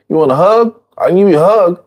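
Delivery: high, upbeat offering voice; cheerful offer. Acted. Teacher voicing a friend offering food to an addict, high and upbeat.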